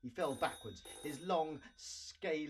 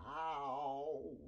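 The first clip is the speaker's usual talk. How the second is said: pained groan. A narrator's reading. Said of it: "he groaned".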